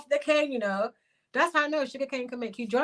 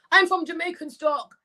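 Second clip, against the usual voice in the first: mocking quote; 8 semitones higher, 3 dB louder than usual. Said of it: "She's saying that she's from Jamaican stock".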